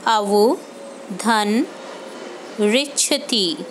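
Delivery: very slow, drawn-out अवधन, each syllable held; धीरे-धीरे बोलना. Shown as a demonstration. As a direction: spell out अवधन slowly for the class. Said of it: "इसी तरह से अवधन रिच्छति". (अवधन को बहुत धीरे, खींचकर बोलें)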